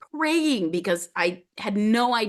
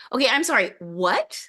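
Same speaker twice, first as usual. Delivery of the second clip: baffled disbelief; 5 semitones higher than usual. Retold or imitated. Client stunned by the shaman's diagnosis, high baffled cry. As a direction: sound completely thrown by what she said.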